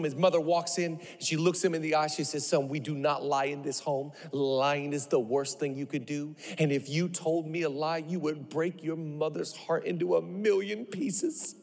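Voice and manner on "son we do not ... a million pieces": low, soft, solemn imitated scolding; grave motherly reproach. Mother telling son lying breaks her heart, quiet reproach. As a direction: lay on the guilt quietly and low.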